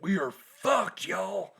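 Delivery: high, slow mock-scared kid; high panicked kid voice. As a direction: whine it like a terrified child. Voicing kid's panic.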